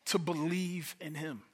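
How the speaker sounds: to believe in him, slowly and softly; soft, slow emphatic restatement; slow emphasis. Real, not acted. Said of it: "the core here is".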